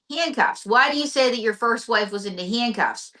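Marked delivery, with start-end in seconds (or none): 0.1-0.7 incredulous repeat, pitched up; surprised echo. Acted. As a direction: echo it back in disbelief. Interviewer echoes in surprise.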